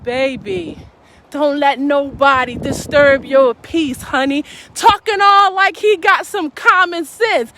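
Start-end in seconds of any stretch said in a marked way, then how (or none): 0.0-4.5 calm smooth man. Retold or imitated. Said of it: "He was so calm".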